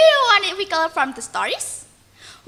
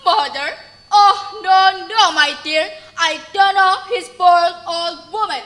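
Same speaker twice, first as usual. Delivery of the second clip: arrogant. Acted. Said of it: "Malin said arrogantly".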